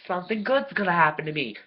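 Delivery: high, loud, bubbly hope; mock naive excitement. Mocking her own past hopeful self, high giddy excitement. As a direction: squeal it like a hopeful fool. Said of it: "and I thought".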